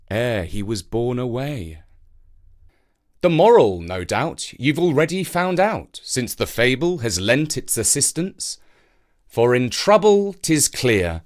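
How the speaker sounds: measured verse reading, rising with the storm; story narration. A narrator's reading. Poem narration and moral.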